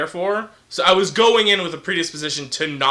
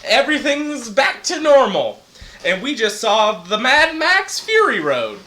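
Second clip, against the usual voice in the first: big radio-host delivery; swooping, showy announcer voice; put-on radio voice; 5 semitones higher than usual. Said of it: "putting on a goddamn radio voice".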